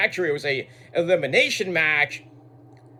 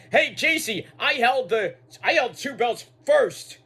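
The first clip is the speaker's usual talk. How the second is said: mock rival taunt; 5 semitones higher than usual. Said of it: "she lists off her own successes".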